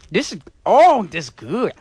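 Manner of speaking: laughing, loud, manic and possessed; demonic sugar rush. Acted. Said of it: "Your voice becomes demonic".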